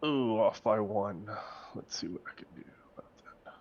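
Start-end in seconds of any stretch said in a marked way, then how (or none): 1.7-3.5 whispering. Real, not acted. Player murmurs to himself.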